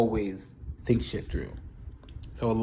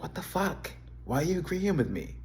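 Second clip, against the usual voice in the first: pitched-up, outraged mock of Claire; mock annoyed girlfriend; 7 semitones higher, 4 dB quieter than usual. A bit higher mocking Claire snapping at Steve's agreement. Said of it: "she'd be like".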